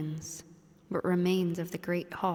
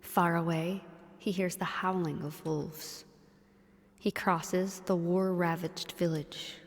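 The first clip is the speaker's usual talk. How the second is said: hushed storytelling whisper; whispered narration. Acted.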